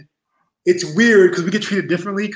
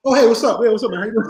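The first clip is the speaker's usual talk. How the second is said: imitating Bret's warm greeting; 6 semitones higher, 3 dB louder, faster than usual. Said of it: "legitimately was like".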